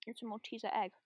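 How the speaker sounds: whispered through a mouthful; hushed, still chewing; chewing while talking. Real, not acted. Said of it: "Can you guys hear me chomping?".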